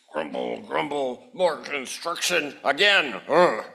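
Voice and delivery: low, grumpy mutter; grumbling neighbor. Acted.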